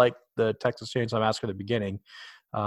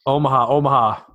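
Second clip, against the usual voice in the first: Peyton Manning audible call; 6 dB louder, faster than usual. Retold or imitated. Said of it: "I'll call back to Peyton Manning".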